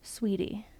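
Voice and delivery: hushed, drawn-out sweetie; whispered endearment. Pretend. Naming a pet name.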